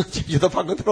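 제주도 방언으로 asked through a laugh, rising at the end; laughing question. Real, not acted. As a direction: scoff at the idea with a chuckle. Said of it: "제주도 방언으로 뭐". (웃으며 되묻는 말투)

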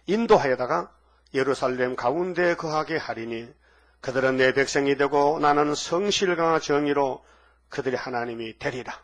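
solemn scripture reading. Acted. Preacher reading Zechariah aloud to the congregation, solemn and slow.

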